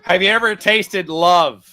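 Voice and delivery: hammed-up soda commercial; mock salesman pitch. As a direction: oversell it like a soda ad. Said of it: "being facetious".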